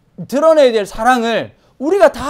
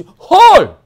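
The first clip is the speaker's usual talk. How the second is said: high, loud gasped exclamation; shocked villager; 11 semitones higher, 13 dB louder, much slower than usual. Acted. Villager hearing news of a long-lost neighbour, shocked. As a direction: burst out in mock astonishment.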